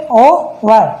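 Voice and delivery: "ओवर" as o, then var, H silent; split syllables. Shown as a demonstration. Teacher answers how it is read, "ओवर" syllable by syllable. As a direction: say "ओवर" in two separate beats. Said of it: "कैसे पढ़ते इसे".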